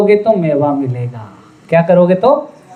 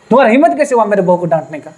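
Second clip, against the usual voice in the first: fast, indignant challenge; how-dare-you rebuke; much faster than usual. Retold or imitated. Mother-in-law rebuking her son for scolding his wife, fast and protective. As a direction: rush at him in protective anger.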